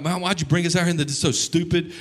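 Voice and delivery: put-on ungrateful child. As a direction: whine it like a spoiled child. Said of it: "ungrateful children".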